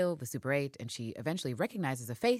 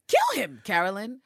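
a much higher, much louder cry; yelled urging; 8 semitones higher, 9 dB louder than usual. Retold or imitated. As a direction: shout at the screen. Yelling at the TV character.

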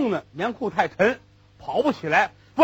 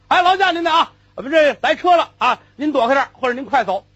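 loud, higher call to clear the road; 5 semitones higher, 5 dB louder than usual. Retold or imitated. Puller calling loudly to a pedestrian to move aside. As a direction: sing out a polite warning. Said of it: "早喊了".

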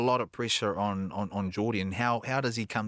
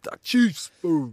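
announcer voice; 7 semitones higher, 8 dB louder, much slower than usual. Pretend. Announcing the Chiefs segment.

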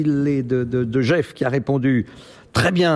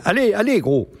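imitating a little man; 7 semitones higher than usual. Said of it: "le petit Fluet lui disait".

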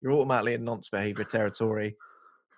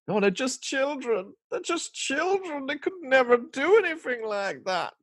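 much higher, slow, mock-posh parent voice; odd put-on accent; slower than usual. Host mocking the film's parents, high slow odd accent. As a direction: mimic a parent in denial, high and drawn out. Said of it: "I don't know what accent I'm doing there".

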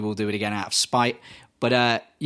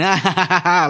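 mock manic laugh; 5 semitones higher, 5 dB louder than usual. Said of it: "running around going".

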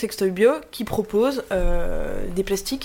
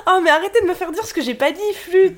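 exasperated; 8 semitones higher, 4 dB louder than usual. Real, not acted. Teased, mock exasperated protest.

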